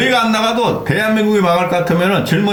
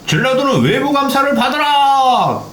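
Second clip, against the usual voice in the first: mock demand; 3 semitones higher than usual. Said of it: "국힘에서".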